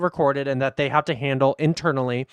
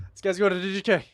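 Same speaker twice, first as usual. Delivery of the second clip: put-on a light, higher take on the officer's Miami accent; imitating Miami accent; 4 semitones higher, 4 dB quieter, faster than usual. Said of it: "this guy's accent is hilarious".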